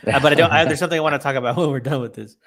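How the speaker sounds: talking while stoned; stoner. Real, not acted. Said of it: "I'm stoned".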